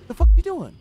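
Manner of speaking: loud, high and sharp; a sudden baffled shout at the screen; startled yell. Real, not acted. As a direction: yell it in disbelief. Startled by target's move.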